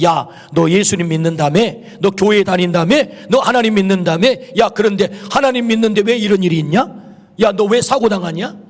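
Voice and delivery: imitating scoffers' taunting questions; retold jeering, each question lifting at the end; mocking. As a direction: needle a believer with rising mock questions. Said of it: "라고 조롱합니다".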